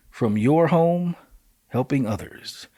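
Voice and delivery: very slow, careful read of tiny print. Shown as a demonstration. Host squinting at a tiny flyer, reading slowly. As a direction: spell out each word slowly, squinting at the text. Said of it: "That's why I had to read it slow".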